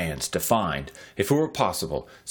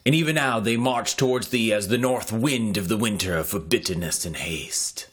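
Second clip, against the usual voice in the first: urgent panting report. Acted. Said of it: "a breathless messenger, and cried aloud".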